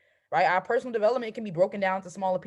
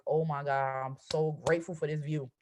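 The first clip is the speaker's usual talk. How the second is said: lower, awestruck thankfulness; awed gratitude; 6 semitones lower, 3 dB quieter than usual. Shown as a demonstration. Coach shows how to gush over a vision-board photo, lower and awestruck. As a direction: marvel at the view and give thanks. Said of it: "You would just be like".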